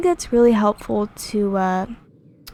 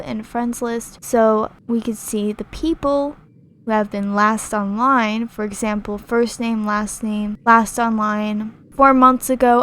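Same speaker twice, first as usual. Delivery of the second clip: flat robotic monotone reading. Real, not acted. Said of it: "Sorry, I sound like a robot".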